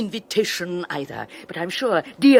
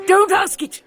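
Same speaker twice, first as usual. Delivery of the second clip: contemptuous; 13 semitones higher, 6 dB louder than usual. Acted. Henrietta's tirade.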